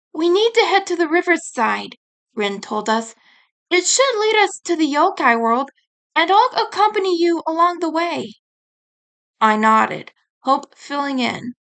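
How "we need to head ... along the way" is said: higher, helpful fairy; lightly voiced fairy guide. Rin guides them.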